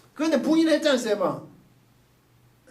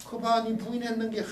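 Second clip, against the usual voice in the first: a touch softer, quietly sorrowful; sorrowful Jesus; 4 dB quieter than usual. Retold or imitated. Jesus looks at Peter after the denial, quietly sorrowful. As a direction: lightly voice Jesus pitying Peter. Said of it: "안타깝게 바라보시는 거지".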